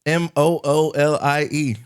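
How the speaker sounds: letters spelled one by one, slow; spelled out slowly. Shown as a demonstration. Correcting his friend, spelling slowly letter by letter. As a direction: spell it out deliberately.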